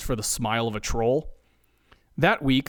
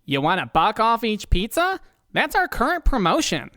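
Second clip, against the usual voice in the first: higher, proud phone pitch; 8 semitones higher, 3 dB louder than usual. Acted. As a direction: say it like it's a great deal. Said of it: "Hank responds proudly".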